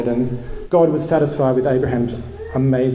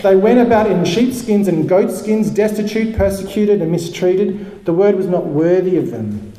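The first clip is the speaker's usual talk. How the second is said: rant; 5 semitones higher than usual. Acted. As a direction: preach it like a fiery rant. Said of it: "I'll read it like a rant".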